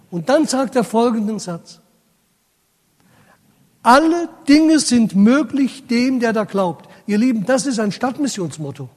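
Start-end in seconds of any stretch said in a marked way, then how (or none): 3.8-6.9 proclaimed. Acted. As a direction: ring out the promise. Proclaiming Jesus' key sentence.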